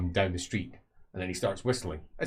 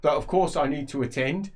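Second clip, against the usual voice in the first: slightly louder, pointed; 6 semitones higher, 6 dB louder than usual. Acted. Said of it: "he says slightly louder".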